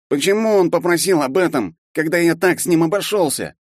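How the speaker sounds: high, tearful, breaking question; crying on the floor, he can't understand; sobbing question. A narrator's reading. Half-elf sobbing to the professor after being forgiven, tearful. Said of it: "всхлипывая".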